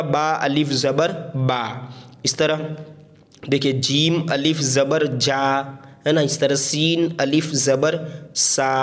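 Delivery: letters drawn out one by one; slow spelling drill. Shown as a demonstration. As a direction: spell it slowly like a teacher. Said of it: "तो क्या हो जाएगा".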